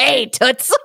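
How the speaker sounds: high, grating cartoon beetle voice; Gilbert Gottfried-style beetle. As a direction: do the Thumbelina beetle. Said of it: "where it talks like this".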